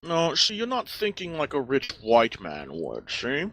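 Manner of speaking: high, smug rich snob. Acted. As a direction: sneer like a spoiled aristocrat. Snob character defends wealth.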